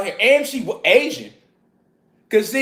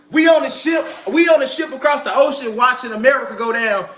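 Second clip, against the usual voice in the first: preaching call. Real, not acted. Preaching vision, calling out.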